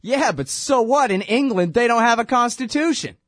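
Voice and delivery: imitating the judge. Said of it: "And Napolitano's like".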